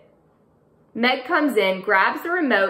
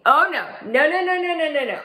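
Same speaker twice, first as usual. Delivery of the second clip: horrified refusal; 7 semitones higher, 4 dB louder, faster than usual. Acted. Horrified at the paper.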